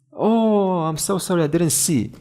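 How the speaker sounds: mild mock apology, high and falling; apologetic wife. Wife apologises to her husband, lightly acted.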